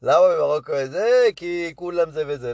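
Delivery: put-on a touch of old Moroccan accent, retelling his joke; old-time Moroccan accent. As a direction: imitate an old-school Moroccan accent, lightly. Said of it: "הוא מדבר עם מבטא כזה של מרוקאים של פעם". (חיקוי קל של מבטא מרוקאי של פעם)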